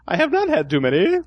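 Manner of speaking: a hint of cartoon in a put-on English accent; cartoon English character. Drinker insisting he's sober, lightly cartoonish English voice. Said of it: "That's a cartoon character now".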